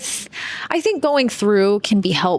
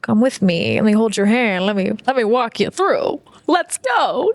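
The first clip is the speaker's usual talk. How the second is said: gentle guiding voice. Retold or imitated. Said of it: "It's in the".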